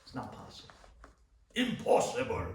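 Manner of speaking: put-on doctor's flat verdict in a German accent; mimicking the German doctor's accent. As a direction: deliver it like a blunt German doctor. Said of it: "With the German accent".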